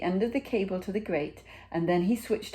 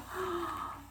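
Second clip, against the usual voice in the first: gasp; 12 semitones higher, 9 dB quieter than usual. A narrator's reading. Reader reacts to the picture.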